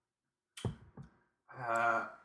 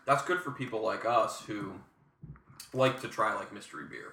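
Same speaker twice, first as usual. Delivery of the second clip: chewing brisket. Real, not acted. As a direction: mouth full of brisket. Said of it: "I'm eating".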